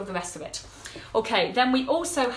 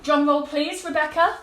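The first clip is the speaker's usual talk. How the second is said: excited build-up; 5 semitones higher, 6 dB louder than usual. Real, not acted. Asking for drum roll.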